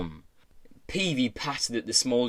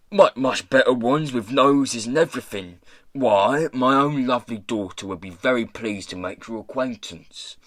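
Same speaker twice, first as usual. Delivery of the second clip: rough, eager matchmaking patter; pirate boss, coaxing. Acted. Pirate boss offering his daughter's company, coaxing. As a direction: talk up the alternatives eagerly.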